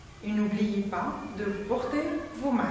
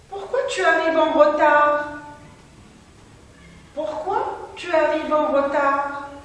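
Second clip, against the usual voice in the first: louder question, punch arrives; emphatic question; 3 semitones higher, 4 dB louder than usual. Shown as a demonstration. Teacher reading a question to pupils, loud. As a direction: ask it loudly, stressing arrives. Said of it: "reading the question sentence".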